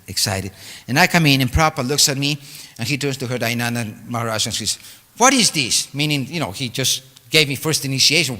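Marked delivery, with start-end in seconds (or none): 5.2-5.9 higher, louder sharp question; annoyed demand. Retold or imitated. Guru displeased to see the boy, higher sharp demand. Angry guru sees narrator.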